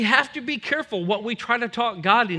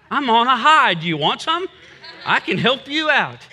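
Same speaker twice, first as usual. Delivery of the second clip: bright, louder, laughing as he offers it; laughing brag; 3 semitones higher, 4 dB louder than usual. Retold or imitated. Joking back to the stranger who follows him, laughing and loud. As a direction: laugh it off like you're high on life.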